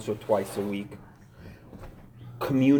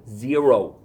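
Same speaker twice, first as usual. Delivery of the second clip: a loud punched "Zero"; "Zero" said loud with a falling finish; emphatic zero; 10 dB louder than usual. Real, not acted. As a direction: slam the word "Zero" down alone. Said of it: "I need to drill this into my mind".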